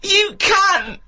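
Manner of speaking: high screaming furious rant; swearing tirade. Acted. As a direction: scream it like a jealous lover in a park. Mock screaming row in park.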